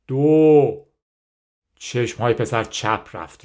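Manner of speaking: measured audiobook reading, carefully articulated; story narration. A narrator's reading. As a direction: read the story out in phrases with pauses. Reads the story aloud.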